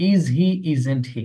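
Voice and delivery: slow, even question tag; teacher demonstrating slowly; slow model tag question. Shown as a demonstration. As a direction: drill it slowly. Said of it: "teacher models tag question".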